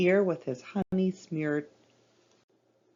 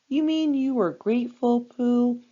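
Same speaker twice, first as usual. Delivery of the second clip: quiet; 6 semitones higher, 5 dB louder than usual. Acted. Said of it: "asked Piglet in a very quiet voice".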